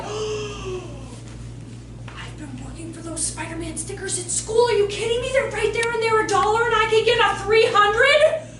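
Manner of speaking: building from hushed awe to loud, high disbelief; excited child. Acted. Child finding cheap Spider-Man stickers, building excitement.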